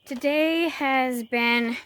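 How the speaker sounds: talking through a burp; burpy, gassy speech; burping after fizzy drink. Real, not acted. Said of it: "I'm sorry for the burping".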